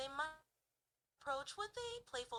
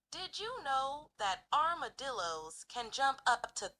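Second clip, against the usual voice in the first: stronger Southern accent; 7 dB louder than usual. Shown as a demonstration. Asked for a stronger accent on a fact, heavy Southern. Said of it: "do it even much more stronger".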